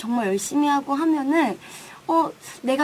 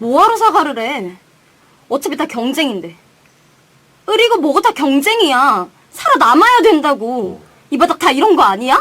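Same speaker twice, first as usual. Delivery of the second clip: loud, furious, angry shouting tirade; 7 dB louder than usual. Asked to give a demonstration in the radio version, yelling angrily. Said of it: "소리를 빽빽 질러도 되나요 / 왜 화를 내세요, 무섭게".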